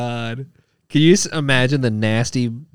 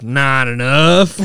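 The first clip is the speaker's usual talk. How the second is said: put-on town drunk; much slower than usual. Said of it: "it's like".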